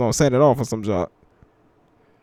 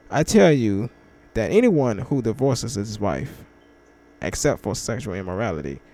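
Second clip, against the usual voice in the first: scripture reading; 3 semitones lower than usual. Acted. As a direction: read the verse gently and deliberately. Reads scripture aloud.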